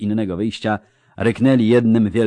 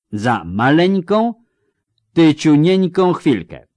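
mock sweetness; 10 semitones higher, 8 dB louder, slower than usual. Mock diminutive.

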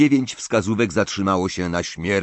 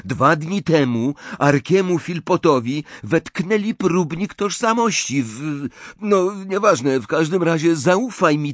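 put-on higher, brisk young man's banter; lightly voiced Bill; 8 semitones higher than usual. Bill handing Harry his gold, teasing Ron lightly. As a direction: tease his brother, then reassure. Bill's voice held.

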